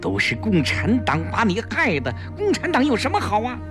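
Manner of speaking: high, fast, staged scolding for eavesdroppers; loud scolding. A narrator's reading. Woman loudly scolding her friend for the listener outside. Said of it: "季嫣然大声地说".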